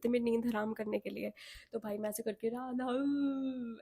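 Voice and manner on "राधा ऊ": mock wailing. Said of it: "ऐसे कर करके मैं पूरा रोती थी".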